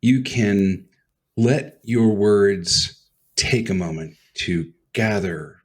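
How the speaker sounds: slow, halting phrases with long pauses; Shatner-like deliberate pauses; spacious cadence. Shown as a demonstration. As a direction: let the words breathe. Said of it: "Cadence is when to let your words breathe".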